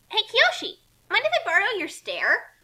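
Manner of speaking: high, loud call to friends below. Acted. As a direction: shout down from the balcony. Kasumi calls down to friends.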